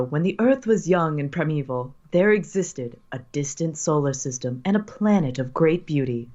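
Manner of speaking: narrator voice. Acted. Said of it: "put on your, your best narrator voice".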